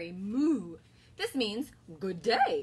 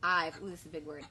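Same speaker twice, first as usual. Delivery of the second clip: worried cow; 6 dB louder, much slower than usual. Acted. Bella's lament read together.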